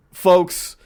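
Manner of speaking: a punchy address to the crowd; Trump. Retold or imitated. Comedian quoting a favorite catchword, mock politician. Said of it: "Trump talking about Nen".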